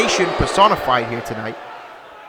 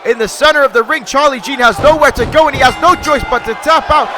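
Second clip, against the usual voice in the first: higher and louder announcer call; excited finish call; 4 semitones higher, 3 dB louder than usual. Real, not acted. Commentator announcing the winner to the crowd, rising and loud. Commentator calls the deciding submission.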